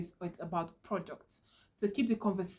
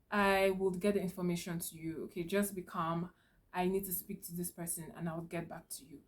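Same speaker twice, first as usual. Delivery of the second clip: softer, calm and reassuring; calm reassurance; 5 dB quieter than usual. Shown as a demonstration. Clerk calming an angry customer, softly reassuring. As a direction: settle the upset customer down gently.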